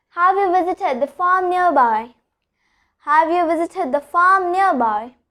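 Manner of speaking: "farm" with a long continued A; lengthened vowel before R. Shown as a demonstration. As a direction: stretch the A sound in "farm". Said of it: "I'm just continuing the farm A sound".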